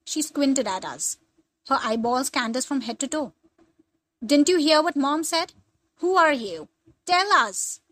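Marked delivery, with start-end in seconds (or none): 4.2-7.8 mock scream. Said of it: "I screamed".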